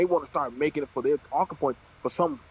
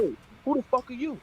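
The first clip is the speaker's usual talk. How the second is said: incredulous outburst; 9 semitones higher than usual. Retold or imitated. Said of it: "I'm like".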